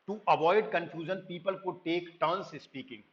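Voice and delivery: slow, careful reading of an English definition; slow slide reading. Acted. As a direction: read it out word by word like a textbook. Reads slide line slowly. (धीमी, सधी आवाज़ में पाठ पढ़ना)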